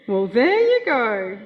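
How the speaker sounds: a hint of Gran closing the matter; Gran's settled phrase. Grandchild quoting Gran at the table, slow and knowing. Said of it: "with arms folded".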